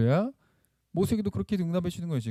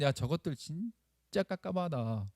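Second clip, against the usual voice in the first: exasperated God; 7 dB quieter than usual. Pretend. Imagined God fed up with the complainers, mock exasperated. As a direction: grumble slowly, as if fed up with them. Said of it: "이렇게 말씀하신 게 아니라".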